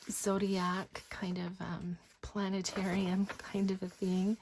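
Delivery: breathy whispered show-and-tell. Acted. Crafter whispering to viewers while showing pages, hushed. Soft-spoken craft flip-through.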